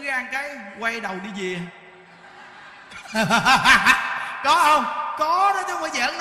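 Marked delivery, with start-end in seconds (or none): 1.7-4.4 loud burst of laughter; hearty laugh. Real, not acted. Laughs at own story. (cười lớn)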